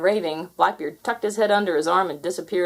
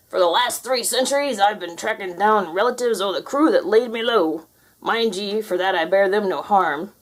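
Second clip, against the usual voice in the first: pirate ghost voice. Acted.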